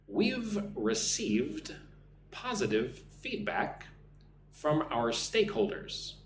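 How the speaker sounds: slow dictation in short, separated phrases; slow model sentence. Shown as a demonstration. Teacher reading the next example for students, slow and clear. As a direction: stretch the words, pausing after each phrase.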